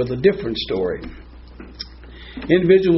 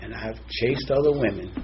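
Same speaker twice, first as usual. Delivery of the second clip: soft guilty confession; 4 semitones lower, 8 dB quieter than usual. Acted. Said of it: "we'll get a little dramatic".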